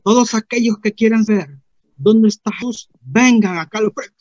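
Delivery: loud, high preacher's summons; pastor's altar call. Retold or imitated. Pastor calling seekers to the front, preaching voice. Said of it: "Y dice el pastor".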